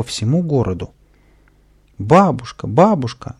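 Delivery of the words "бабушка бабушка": joyful cry. Acted. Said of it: "на бегу радостно вскрикнул".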